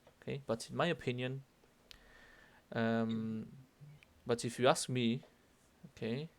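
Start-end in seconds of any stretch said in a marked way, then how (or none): 0.5-1.4 opinion left open, more to come; singsong lead-in. Shown as a demonstration. Teacher introducing a longer statement, singsong lead-in. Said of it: "indicar que voy a seguir hablando". 4.2-5.2 me left open before a pause; singsong lead-in. Shown as a demonstration. Teacher introducing a longer statement, singsong lead-in. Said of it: "indicar que voy a seguir hablando".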